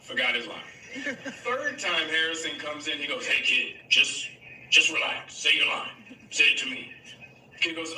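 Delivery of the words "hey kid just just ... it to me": reassuring. Retold or imitated. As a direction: settle the kid down gently. Harrison calming the nervous actor.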